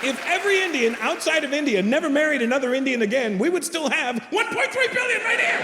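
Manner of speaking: high, climbing to a squealed punchline; worked-up high-pitched comic tirade; building rant. Acted.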